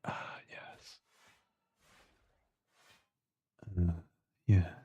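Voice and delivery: breathy dreamy whisper. Acted. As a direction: sigh it out in a whisper. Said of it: "You like that whisper?".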